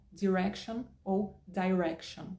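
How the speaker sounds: direction said first American, then British; two accents. Shown as a demonstration. Teacher comparing American and British pronunciations of direction. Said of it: "fazer o teste com a própria palavra".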